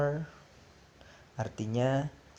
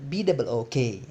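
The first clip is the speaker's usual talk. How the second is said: faster; 4 dB louder than usual. Shown as a demonstration. Teacher asks class to spell faster, quicker spelling. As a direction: spell it out quicker, letters run together. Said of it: "Lebih cepat".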